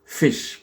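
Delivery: "Fish" with a short, lax i; English model word "Fish". Shown as a demonstration. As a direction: keep the vowel of "Fish" short. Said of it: "un I court".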